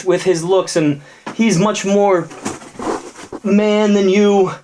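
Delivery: put-on high-pitched scolding girlfriend voice; angry girlfriend. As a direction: tell him off from up high. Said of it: "the woman stepped up and she said".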